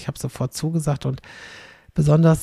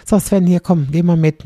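louder, bossy summoning; bossy call; 2 semitones higher, 6 dB louder than usual. Retold or imitated. People talking down to Sven, loud and bossy. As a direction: call him over like a child.

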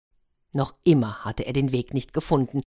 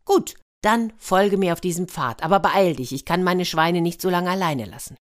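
bossy hedgehog; 2 semitones higher, 3 dB louder than usual. Acted. Plays hedgehog hurrying the ruler.

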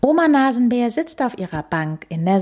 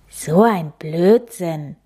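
grumbled thought; 4 dB louder, slower than usual. Acted. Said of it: "denkt der kleine Nasenbär".

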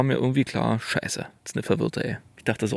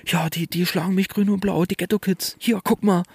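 confused woman rambling; 8 semitones higher than usual. Retold or imitated. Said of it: "quatscht die mich weiter zu".

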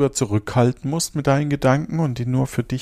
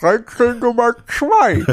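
laughing; 11 semitones higher, 5 dB louder than usual. Real, not acted. Laughing riddle announcement.

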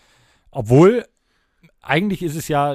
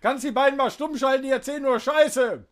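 raised mock complaint; 12 semitones higher than usual. Addresses producer Horst, mock complaint.

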